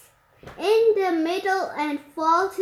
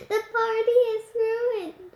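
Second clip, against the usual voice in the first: sobbing; 5 semitones higher than usual. Acted. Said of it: "she sobbed".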